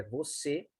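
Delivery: você with a closed ê. Shown as a demonstration. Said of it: "E fechado". (você com ê fechado)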